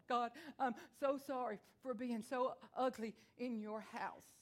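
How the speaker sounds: put-on a touch of a child crying as she says sorry; tearful child's apology. Five-year-old in church, apologizing to God through mild tears. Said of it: "and I'm crying".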